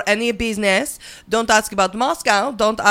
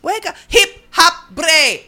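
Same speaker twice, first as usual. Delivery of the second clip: put-on high, loud accented cheer; excited Melania; 7 semitones higher, 4 dB louder than usual. Comedian as Melania, cheering the puzzling line. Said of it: "Is she saying hip hop".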